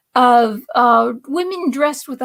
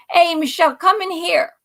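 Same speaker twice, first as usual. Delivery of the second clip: higher-pitched retold call; imitated calling out; 5 semitones higher than usual. Cousin calling from the back room, imitated call. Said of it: "I hear my cousin Jimmy call".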